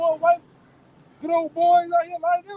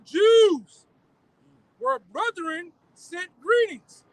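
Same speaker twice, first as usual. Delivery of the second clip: scripture reading. Acted. Reads Maccabees letter aloud.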